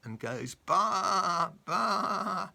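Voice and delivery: high, slow teasing pig voice with the baa drawn out; pig asking a riddle, straight face. A narrator's reading. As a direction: hold back a giggle as the pig. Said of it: "trying to keep a straight face".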